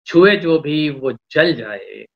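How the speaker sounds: poetry recitation. Acted. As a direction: lean into each line of verse. Poet recites a couplet.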